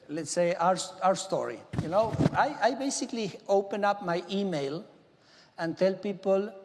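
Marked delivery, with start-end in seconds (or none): none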